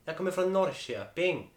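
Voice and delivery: imitated Norrköping accent; Östergötland dialect attempt. Shown as a demonstration. Host poses as Norrköping native, Östergötland dialect. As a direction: say it as an Östergötland local. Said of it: "östgötska då".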